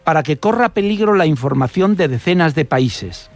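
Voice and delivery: measured narration with emphatic pauses before key words; scripted radio storytelling. Acted. Radio reporter recounting an Italian spy case to listeners, storytelling delivery.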